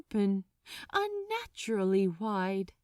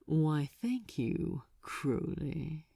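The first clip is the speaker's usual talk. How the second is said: smiling demon; 5 semitones lower, slower than usual. A narrator's reading. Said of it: "smiled Asmodeus".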